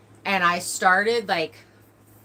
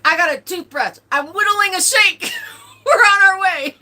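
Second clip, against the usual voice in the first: laughing rush; 13 semitones higher, 11 dB louder than usual. Retold or imitated. Cousin's excited rush.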